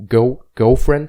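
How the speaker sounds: put-on loud, slow Cockney "girlfriend" with L as W; Cockney accent. Shown as a demonstration. Showing friends how L becomes W, Cockney accent. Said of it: "it turns into a W".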